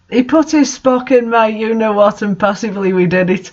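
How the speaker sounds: "put" and "Spock" stressed in mock disbelief; incredulous reread. Real, not acted. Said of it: "Is that like a Star Trek reference now?".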